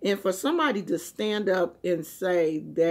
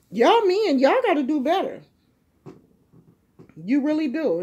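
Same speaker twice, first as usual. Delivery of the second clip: heated scolding; 5 semitones higher, 4 dB louder than usual. Real, not acted. Scolding men in her rant.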